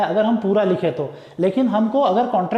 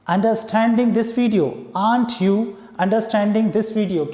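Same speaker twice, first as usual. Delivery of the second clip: slow dictation; much slower than usual. Shown as a demonstration. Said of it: "तो कैसे बोलेंगे".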